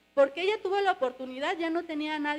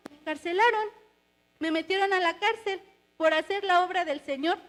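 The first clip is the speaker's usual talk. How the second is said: mildly aggrieved plea, pitched up and building louder; acted protest; 3 semitones higher, 3 dB louder than usual. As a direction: plead a case to God, rising in force. Acted protest of jailed Paul and Silas. (queja actuada, cada vez más fuerte)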